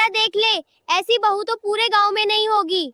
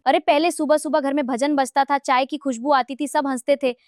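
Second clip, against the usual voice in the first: low, slightly softer wistful recollection; wistful lament; 5 semitones lower, 3 dB quieter than usual. Acted. Mother recalls mornings of bhajans and tea, wistful lament. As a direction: remember happier days with a subdued ache.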